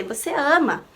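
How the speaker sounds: Você ama with the voice lifted on ama to make it a question; question intonation. Shown as a demonstration. Teacher showing students a question made by intonation only. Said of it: "eu só mudo a entonação".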